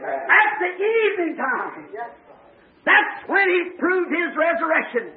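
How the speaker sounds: fervent preaching. Real, not acted. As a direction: preach it to a responsive congregation.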